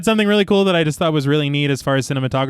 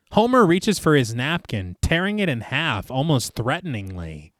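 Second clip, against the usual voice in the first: story narration; 3 dB quieter, slower than usual. Acted. Film podcast host reads the bar scene to co-hosts, measured narration. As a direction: read the scene out steadily.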